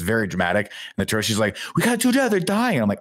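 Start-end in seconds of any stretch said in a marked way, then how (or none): 1.7-2.8 April. Retold or imitated. April voiced in movie recap.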